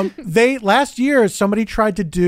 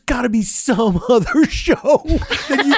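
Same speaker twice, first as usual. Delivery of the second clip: exasperated; 8 semitones higher than usual. Retold or imitated. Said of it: "And I was like".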